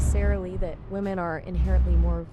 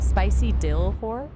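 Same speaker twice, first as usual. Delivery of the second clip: Singlish; 3 semitones higher, slower than usual. Shown as a demonstration. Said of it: "Can you say spicy dill in Singlish".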